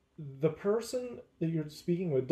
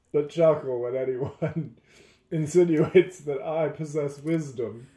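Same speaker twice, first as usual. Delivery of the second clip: chuckling; 5 dB louder than usual. Real, not acted. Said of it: "I shouldn't chuckle".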